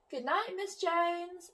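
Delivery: a hint of a cheerful little dog; lightly voiced Mister Jack. Mister Jack's voice.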